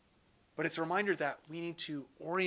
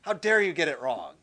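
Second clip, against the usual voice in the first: mock angry rebuke; 6 dB louder than usual. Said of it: "he's not just going like".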